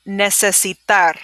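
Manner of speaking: "necesitar" drawn out; slow, careful. Shown as a demonstration. Teacher repeating a hard word slowly. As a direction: model it slowly. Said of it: "Let me hear you say this again".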